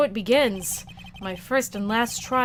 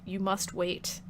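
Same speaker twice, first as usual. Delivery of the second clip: much softer, low and halting; soft reminder; 2 semitones lower, 8 dB quieter, slower than usual. Real, not acted. Streamer telling chat to wait for streams, soft reminder. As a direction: say it quietly, almost under the breath. First take, before emphatic repeat.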